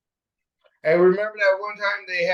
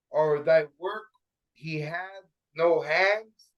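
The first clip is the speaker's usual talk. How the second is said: slow, measured scripture recitation; scripture reading; 3 semitones higher, slower than usual. Acted. Reading Isaiah aloud to the group, slow scripture reading. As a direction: read it out slowly, weighing each phrase.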